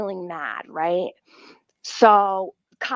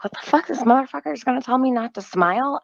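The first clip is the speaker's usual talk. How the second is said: higher, fast incredulous rant; retold disbelief; 5 semitones higher, much faster than usual. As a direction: rattle off outraged disbelief. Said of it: "I'm like".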